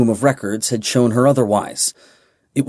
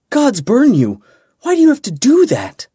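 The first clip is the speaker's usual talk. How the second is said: furious shout; 13 semitones higher, 5 dB louder than usual. Acted. Slapping him in angry relief.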